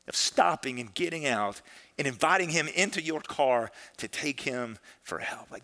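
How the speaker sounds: soft, measured encouragement; retold tender reassurance. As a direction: comfort her sincerely and softly. Pastor consoles distraught caller in story.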